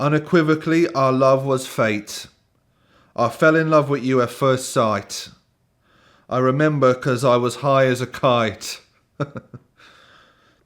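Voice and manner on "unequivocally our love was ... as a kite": put-on generic British accent, higher pitch. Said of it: "I'm just gonna do generic British accent".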